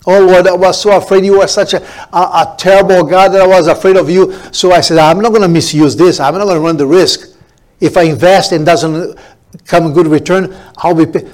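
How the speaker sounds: hammed-up frightened servant pleading with a little laugh; making excuses. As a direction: whine out the excuses like a scared servant.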